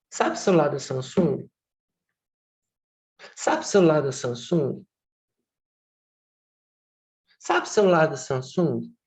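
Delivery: identical repeats, same falling tune; like a scratched record. Shown as a demonstration. Teacher demonstrating a stereotypy, repeating it mechanically. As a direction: loop the phrase like a broken record. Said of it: "Como um disco arranhado".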